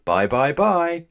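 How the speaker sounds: high, loud, drawn-out farewell; calling after someone. A narrator's reading. Twins to their departing guest, calling after him. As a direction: sing out goodbye into the distance. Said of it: "the twins called after him".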